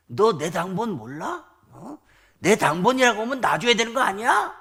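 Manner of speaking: indignant rising challenge, acted; mock angry roar. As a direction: imitate a general bawling out a subordinate. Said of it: "호통을 쳤더니".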